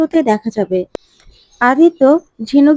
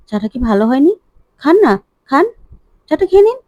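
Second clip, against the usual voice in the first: building from a calm question to a sharp, much higher, louder demand; angry scolding; 4 semitones higher, 3 dB louder, faster than usual. Acted. Pallabi forcing spiced tea on Aditya, angry rising shout. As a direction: push the chai on him with rising anger, ending in a shout. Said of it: "এই বলে রাগ দেখালেই".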